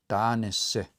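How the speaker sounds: Danese in separated syllables, da-ne-se. Shown as a demonstration. Teacher reads out the spelled word, Danese split into syllables. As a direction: sound out Danese slowly in parts. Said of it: "The way an S R O spell this word".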